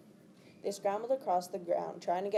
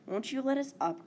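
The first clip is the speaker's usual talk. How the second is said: complaining; 7 semitones higher than usual. Acted. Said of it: "complained Aragorn".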